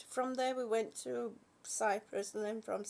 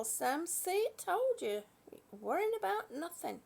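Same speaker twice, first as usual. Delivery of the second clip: higher teasing told-you-so; playful i-told-you-so; 6 semitones higher than usual. Acted. Telling chat viewer Sam off playfully, a little higher. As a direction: tease them lightly for worrying.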